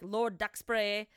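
slow, put-on British Lord Duxbury; deliberate British enunciation; British pronunciation. Shown as a demonstration. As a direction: say it with a mock British accent. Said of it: "a lot of British words".

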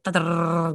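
rattled-off whirring noise for a wild mind; trilled nonsense syllables, tumbling along; imitated racing brain. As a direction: imitate a brain spinning out of control. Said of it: "your brain just wild, like".

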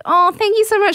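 high, politely grateful mock thanks; trying to be gracious. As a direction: imitate someone putting on gracious thanks. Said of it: "She's trying to be gracious".

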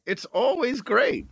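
slow, spaced-out stoned drawl. Real, not acted. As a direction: sound high and slow. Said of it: "you're so stoned right now".

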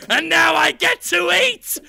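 high, loud hammed-up glee; loud, slow villain gloating; gleeful shout. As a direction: crow it to the camera. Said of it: "Willem Dafoe looks at the camera and says".

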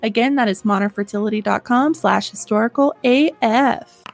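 lively, chatty sponsor read; scripted pitch with personal asides; podcast ad read. Acted. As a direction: sell it to listeners like trusted friends. Reads a sponsor's advertisement.

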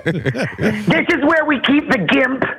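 mock host revealing the basement; creepy host. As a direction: say it slow like a sinister host. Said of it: "creepy host joke".

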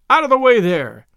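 loud, high shout that falls away; coachman's bawl. A narrator's reading. Coachman to the crowd in the lane, bawling loudly. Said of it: "bawled a coachman".

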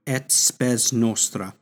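each Latin syllable of "et spes nostra" spelled out slowly and clearly; teacher models "et spes nostra" slowly for learners to copy; slow Latin demo. Shown as a demonstration. Teacher sounding out the Latin for students, slow and clear. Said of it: "So what that means is".

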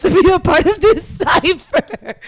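loud, high, drawn-out laughing delivery; real laughter breaking up the words; laughing while talking. Real, not acted. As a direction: crack up while explaining. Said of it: "it sounds so terrible laughing like this".

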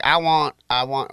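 a hint of a Southern accent, barely put on. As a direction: lazily imitate a Southern president wanting food. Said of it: "I just made him Southern".

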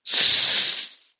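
unfriendly cat hiss; a sharp, unfriendly cat hiss. Acted. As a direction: hiss at them like a hostile cat. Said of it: "a sharp and unfriendly".

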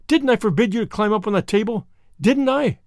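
stern scolding. Acted. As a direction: demand an answer from the naughty child. Marilla scolding Davy.

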